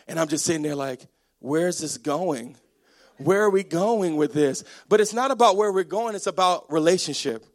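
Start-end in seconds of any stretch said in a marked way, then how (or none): 1.4-4.6 puzzled impatience. Retold or imitated. Husband lost in wife's story.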